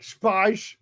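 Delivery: "Spice" with S turned to SH; mock-Connery slushy "Spice"; Sean Connery. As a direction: say "Spice" as "shpaish". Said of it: "just add S H to everything".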